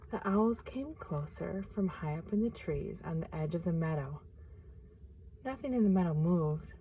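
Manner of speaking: gentle picture-book reading; storyteller reading aloud; story narration. A narrator's reading.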